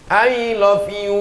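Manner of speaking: slow I love you with no vowel length; slow English. Shown as a demonstration. Preacher contrasts English with Arabic vowel length. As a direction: say it evenly. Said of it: "Bahasa Inggris tidak ada".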